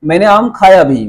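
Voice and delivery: "खाया भी" पर ज़ोर; क्रिया को उभारकर "खाया"; stress on खाया. Shown as a demonstration. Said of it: "verb पर जोर है". ("खाया" पर ज़ोर)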